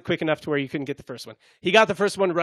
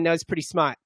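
put-on Boston accent; 2 semitones lower than usual. Host praising a viral clip, put-on Boston accent. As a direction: drift into a joking Boston accent. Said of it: "Now I'm in Boston".

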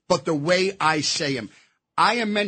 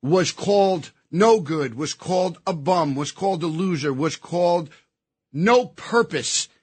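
emotional. Real, not acted. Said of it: "Now I'll get emotional".

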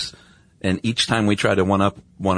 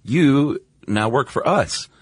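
slow, firm and higher-pitched command; commanding order; 6 semitones higher, slower than usual. Retold or imitated. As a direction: lay down the law slowly, like a boss. Americans ordering the German scientists.

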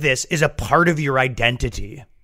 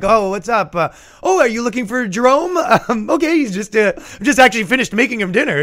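put-on high, breathy-free sing-song girly voice, much higher; ditzy Klan wife; 9 semitones higher, 3 dB louder than usual. Klan girlfriend greeting a Black Panther's visitors, high girly voice. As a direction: play the clueless girlfriend answering the door, pitched way up.

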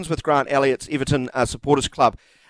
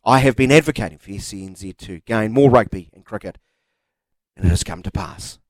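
lower, grandly dramatic reading; 3 semitones lower than usual. Pretend. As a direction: read the text message like a trailer. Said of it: "Why are you putting on this voice?".

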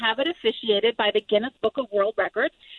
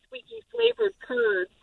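playful emphasis; 10 semitones higher, slower than usual. Real, not acted. Playful emphasis on squeaky curds.

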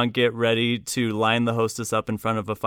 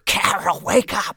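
loud, high urgent hiss from offstage; half-whispered wake-up call from offstage; mock stage whisper; 9 semitones higher, 4 dB louder than usual. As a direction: call her awake from the wings. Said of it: "like, stage whisper".

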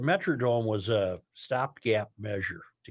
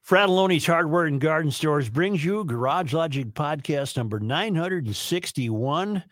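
measured sponsor read with rising and falling cadence; show-open announcer; 3 semitones higher than usual. Real, not acted. Producer opening the podcast for listeners, announcer read. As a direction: announce the episode number and date.

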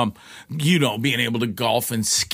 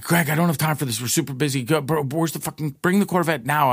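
higher-pitched imitation of an irritated girlfriend; retold impatient scolding; 4 semitones higher than usual. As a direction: rattle it off as a busy, cross girlfriend. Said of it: "yelled at me again".

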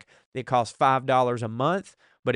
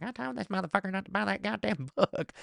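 a soft, higher hint of the wife; lightly voiced wife; 7 semitones higher, 7 dB quieter than usual. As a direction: mimic the scolding wife softly. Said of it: "My wife is walking by just going like".

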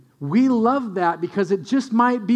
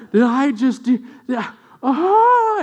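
imitating a thrilled kid, leaping much higher and louder on yeah, oh; 5 semitones higher, 5 dB louder than usual. Toddler amazed he turned on the tree, imitated as a thrilled squeal. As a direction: squeal like a child who can't believe it worked. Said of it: "like that kid in the Volkswagen commercial".

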